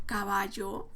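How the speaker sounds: caballo susurrado, sin voz; susurro. Shown as a demonstration. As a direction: susurra caballo como un niño que lo descifra. El niño lee la palabra. (caballo dicho en susurro)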